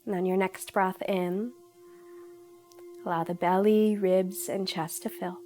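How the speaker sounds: calm, unhurried meditation guidance; guided meditation. Real, not acted. Yoga teacher leading viewers into breathing, in guided meditation style. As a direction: guide them gently, pausing between instructions.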